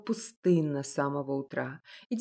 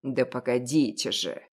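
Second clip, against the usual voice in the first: grumbling; 8 semitones lower than usual. Acted. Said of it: "проворчал старик".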